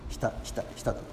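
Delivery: breathy whisper, dropped low and soft; hushed whisper. A narrator's reading. Priest evoking the rising tide in a soft whisper. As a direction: let the tide creep in on a whisper. Tide creeping up, drowning scene.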